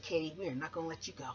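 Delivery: the label reassures Katie, low and quick; low label boss. Retold or imitated. Record label tells Katie they keep her, low and fast.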